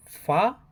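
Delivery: "fa" said with no R at the end, British style; British "fa" without R; non-rhotic far. Shown as a demonstration. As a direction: drop the R in "fa", open long a. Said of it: "In British English, words like".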